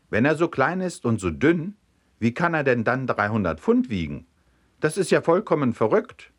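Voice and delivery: puzzled, rising disbelief; baffled protest. Acted. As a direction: protest that it makes no sense. Farmer baffled by impossible description.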